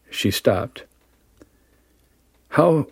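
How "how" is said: breathing hard. Acted. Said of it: "she said, breathing hard".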